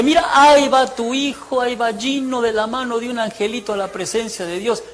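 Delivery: mock visionary announcement. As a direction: proclaim a faked heavenly vision. Fakes a vision for the mother. (anunciando a gritos una visión fingida)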